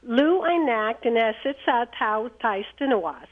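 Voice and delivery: words spoken in reverse; backwards speech. Shown as a demonstration. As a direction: say it backwards, syllable by syllable. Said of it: "it says that you can speak backwards fluently".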